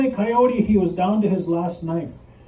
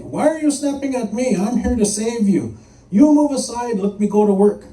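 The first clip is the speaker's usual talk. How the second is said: higher, indignant demand building louder; indignant scolding; 5 semitones higher, 3 dB louder than usual. Acted. Coyote to snapping Rattlesnake blocking his work, indignant scolding. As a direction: tell them off and order them aside.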